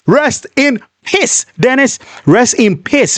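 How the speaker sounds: mocking curse. Real, not acted. Cursing the dead attacker.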